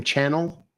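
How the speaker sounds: "Channel" like a TV channel; short flat-a sound in "Channel", asked as a question; questioning pronunciation. Shown as a demonstration. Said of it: "how do I say that?".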